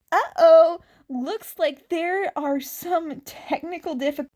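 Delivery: loud, bright stadium announcer exclamation. Acted. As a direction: boom it out like a stadium MC. Announcer Present Mic on speakers.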